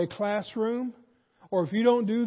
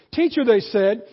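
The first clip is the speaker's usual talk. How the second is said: fake flattery. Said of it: "Boy, they are slapping it on".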